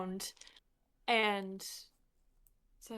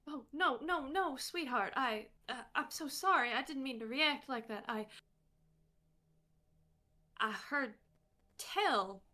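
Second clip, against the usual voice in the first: flustered; 5 semitones higher than usual. Acted. Clementine apologizing, flustered.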